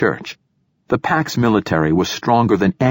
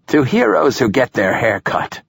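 put-on higher-pitched old man's toast; giving a toast; 5 semitones higher than usual. A narrator's reading. Old poet adding a final toast to heroes, declaiming. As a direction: proclaim the last toast. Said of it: "the old poet was giving his toast".

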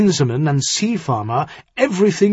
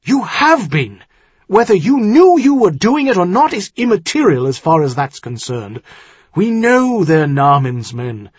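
loud, raised, insistent argument; sharp rebuke; 6 semitones higher, 6 dB louder than usual. Acted. Earl tells son-in-law he has dealt with traitors, sharp. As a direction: drive the point home sharply, voice up. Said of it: "his voice sharper than it had been".

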